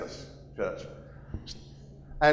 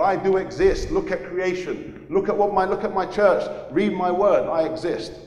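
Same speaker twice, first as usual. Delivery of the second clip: raised calling-out voice; God calling out; 5 semitones higher, 3 dB louder than usual. Pretend. God calling out to people, raised voice. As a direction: call out to everyone, pleading loudly. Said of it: "he's screaming at people".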